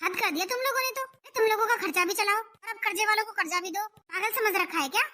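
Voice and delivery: indignant, quick-starting outburst; angry. Acted. Meenal fed up with paying the family's expenses, angry. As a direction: let the resentment pour out. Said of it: "गुस्से में ना बोलूं तो क्या करूं".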